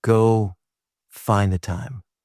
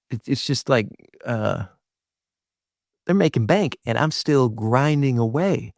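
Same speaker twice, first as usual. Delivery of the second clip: mocking, much higher pitched envious grumble; petty, whiny comparison voice; jealous scoffing; 4 semitones higher than usual. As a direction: sneer at the rivals who are making bank. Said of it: "Or we might say".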